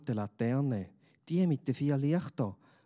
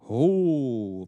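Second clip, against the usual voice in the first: a loud low grunt; low grumble; 8 dB louder than usual. A narrator's reading. Big stranger greets the boy with a loud grunt. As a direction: grunt a gruff ho. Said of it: "brummt eine tiefe Männerstimme".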